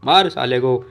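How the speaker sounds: slow, loud barked order to attack; calling out an order. Acted. Boss shouting to his goons to attack, loud and slow. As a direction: yell at your men to beat him up.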